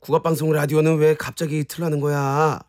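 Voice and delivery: mild mock annoyance; irritated. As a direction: grumble a testy objection. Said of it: "왜 나한테까지 그렇게 짜증을 내고".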